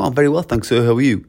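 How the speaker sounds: lifted, courteous answer; reply properly and return the greeting politely; formal polite reply. Shown as a demonstration. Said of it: "it's a little bit more formal".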